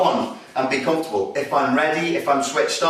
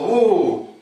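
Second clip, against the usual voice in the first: scared gasp; 6 semitones higher, 4 dB louder than usual. Retold or imitated. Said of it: "get scared".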